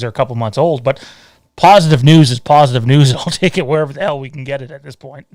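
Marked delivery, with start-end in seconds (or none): 1.6-5.3 excited. Real, not acted. Excited burst about box office news.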